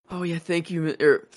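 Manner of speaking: lightly played nervous crush; flustered stammering girl. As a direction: trip over the thanks like a smitten teen. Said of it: "stuttering over everything".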